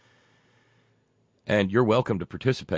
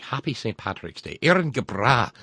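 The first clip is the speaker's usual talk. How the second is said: put-on crummy Irish accent; 3 semitones higher, 3 dB louder than usual. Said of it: "my crummy Irish accent yet".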